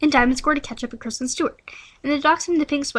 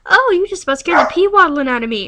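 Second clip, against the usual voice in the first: loud flustered exclaim; startled Claire; 3 semitones higher, 5 dB louder than usual. Acted. Claire scared by Charlie, loud flustered exclaim. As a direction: gasp it out, rattled. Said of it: "Claire said".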